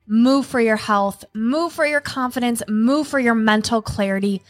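steady, rhythmic ad slogan chant. Acted. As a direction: punch each move like a tagline.

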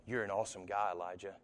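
hushed, tender mock whisper; soft whisper. Preacher imagining God's whisper, a soft hushed voice. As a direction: croon it quietly, like sweet talk. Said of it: "it's like".

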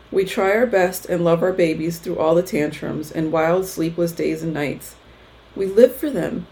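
measured, heartfelt read-aloud; reading own blog post. Real, not acted. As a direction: read your post out to other moms, phrase by phrase.

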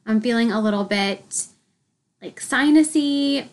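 stuffy blocked-nose voice; congested. Real, not acted. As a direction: talk through a stuffy head cold. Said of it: "I sound a little congested".

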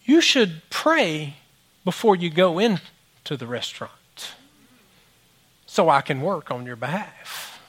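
slow, calm, deliberate voice of God; God speaking. Retold or imitated. God gently instructing the pastor, slow. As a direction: lay it out slowly and gently. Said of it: "and he said".

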